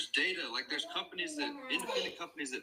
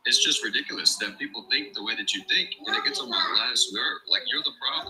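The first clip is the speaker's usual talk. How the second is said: rising, louder frustrated rant; fed-up rant that gets louder line by line; heated rant; 5 semitones lower, 7 dB louder than usual. Real, not acted. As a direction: let the anger build as you go. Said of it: "And now you're mad".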